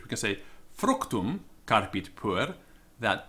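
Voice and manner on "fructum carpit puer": Fructum given the main weight; stress on Fructum. Shown as a demonstration. Teacher showing Latin word order, stress on Fructum. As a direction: lean on Fructum, then carry on slowly. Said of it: "emphasis on fruit as opposed to".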